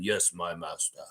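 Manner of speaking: a hint of Vader bowing to his master; mock Darth Vader. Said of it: "the speaker is Darth Vader".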